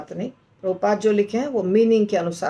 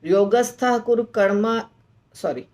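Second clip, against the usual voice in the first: shloka recitation. Shown as a demonstration. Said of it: "ऐसे श्लोक को बोलना है".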